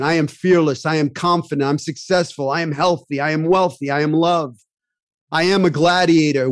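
firm, punchy self-affirmation, each phrase hit hard; declaimed affirmation. Shown as a demonstration. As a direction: proclaim each line like a battle cry. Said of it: "I have an affirmation".

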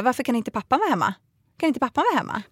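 mock scolding teacher. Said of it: "nästan skällde ut mig". (härmad tillrättavisande pedagog, högre)

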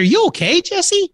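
worried call to a guest on the line; alarmed call. Retold or imitated. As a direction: check he is alive, worried.

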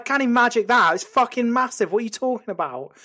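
exasperated protest. Acted. Acted argument with the gremlin.

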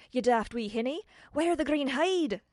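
loud, slow warning shout. Acted. Tiny kilted man shouting a warning to Tiffany. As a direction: yell the warning at her.

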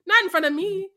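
high, loud playful protest; mock outrage. Fan re-enacts scolding the dying character, loud mock outrage. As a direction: scold the screen in mock horror. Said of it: "And I'm like".

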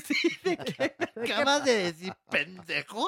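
high, put-on indignant diva; mock Anel. Imitating Anel snapping at the reporter, high and mock-offended. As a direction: play the offended star, half laughing.

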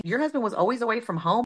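quick, disbelieving echo; can't believe what she's hearing; incredulous. Retold or imitated. Wife echoing another wife's complaint in quick disbelief. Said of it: "And I'm thinking".

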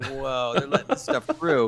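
real laughter running through the words; laughing. Real, not acted. Host to cohost, laughing in disbelief at the scene. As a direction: let it spill out while cracking up. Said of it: "I'm laughing".

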